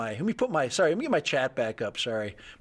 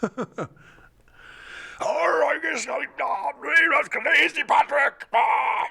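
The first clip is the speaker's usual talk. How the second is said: high loud slow shout; excited announcement; 10 semitones higher, 4 dB louder, much slower than usual. Real, not acted. Introducing Crazy Patrick to viewers, high excited shout. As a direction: hype him up to the chat.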